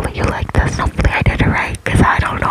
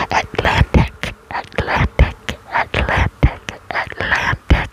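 slow whisper; slower than usual. Acted. Repeated trigger word.

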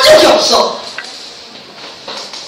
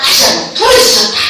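call-and-repeat shout; 9 semitones higher than usual. Shown as a demonstration. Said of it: "따라해보자".

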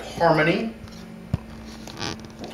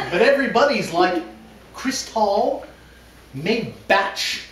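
laughing mock reading; 3 semitones higher than usual. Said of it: "we have a dramatic reading".

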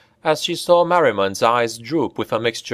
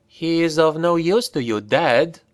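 higher, lilting woman's voice, gently warning; soft melodious caution; 6 semitones higher than usual. A narrator's reading. Enchantress softly warns Corbus to keep the prisoner alive, higher melodious voice. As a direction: caution him softly, like a song. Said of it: "a soft, melodious voice cautioned".

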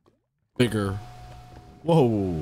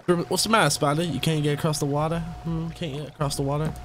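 high, teasing sing-song at the spider; high mocking tease to a stranded spider; mock taunt; 6 semitones higher, faster than usual. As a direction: taunt it like a kid from across the water. Taunting a spider across water.

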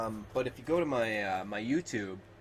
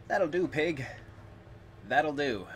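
higher, gentle farmer quote; hint of Farmer Hoggett; quoting Babe farmer; 4 semitones higher than usual.

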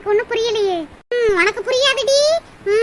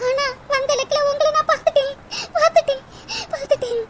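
crying; 3 semitones higher than usual. Acted. Priya tearful, sees her lover.

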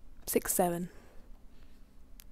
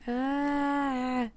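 long, higher-pitched "ah"; frustrated groan; 4 semitones higher than usual. Real, not acted. Frustrated by lag and freezing.

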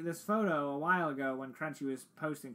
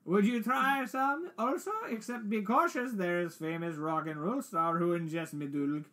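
put-on European accent; 3 semitones higher than usual. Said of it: "sounds like she swallowed a dictionary".

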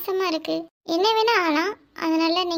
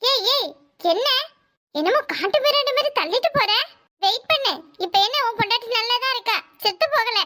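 sharp scolding; 3 semitones higher than usual. Acted. Nurse scolds pushing husband.

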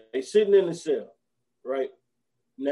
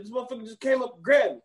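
fast, high, breathless bragging; excited storyteller; 6 semitones higher, faster than usual. Retold or imitated. Chris Tucker hyping his fake arrest story, fast and high. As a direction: rush it like a hyped liar.

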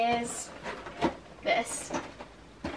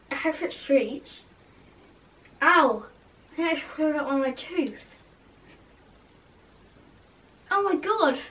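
through fingers at mouth; 3 semitones higher than usual. Real, not acted. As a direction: hand covering mouth. Seen 1: hand at mouth throughout, fingers touching teeth; gone by 6.8.

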